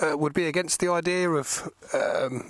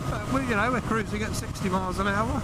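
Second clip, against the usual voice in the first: muffled under a helmet, over wind; inside a helmet; 3 semitones higher than usual. Real, not acted. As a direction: talk from inside a riding helmet. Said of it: "I've got wind around my helmet".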